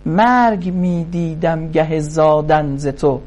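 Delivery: خوانش شعر; poem recitation. Acted. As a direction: chant the couplets like classical poetry. Recites Masnavi verses.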